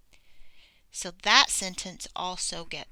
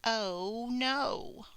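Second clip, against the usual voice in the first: half-hearted scream, stretched out and pitched up; mock scream; 4 semitones higher than usual.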